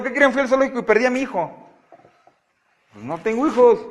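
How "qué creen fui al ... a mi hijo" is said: quick, higher fake alarm; lightly hammed-up worry; mock news. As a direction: rattle off a pretend confession. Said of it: "Es como si les digo".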